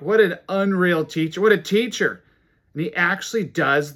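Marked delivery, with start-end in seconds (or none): 0.0-2.2 raised, louder exclamation of admiration; lightly acted gushing churchgoer; amazed congregation. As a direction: exclaim it like an impressed listener. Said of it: "They would say something like".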